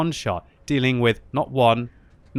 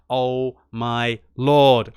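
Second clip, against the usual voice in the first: very slow, drawn-out gasp of awe; awestruck; much slower than usual. Real, not acted. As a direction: stretch it in disbelief. Awed at the finish.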